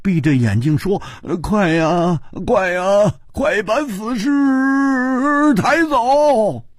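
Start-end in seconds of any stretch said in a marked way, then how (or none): 1.4-6.7 high, stretched, urgent cry; panicked order. Acted. Sickened lord orders the corpse carried out, panicked. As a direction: climb higher with each urgent plea.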